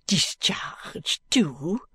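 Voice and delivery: furious. Acted. Maid scorning her mistress, furious. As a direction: spit the question out slowly. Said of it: "cries mademoiselle furiously".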